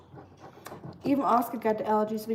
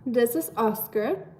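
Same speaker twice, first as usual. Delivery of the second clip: slow teaching voice; slower than usual. Shown as a demonstration. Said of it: "a little German lesson".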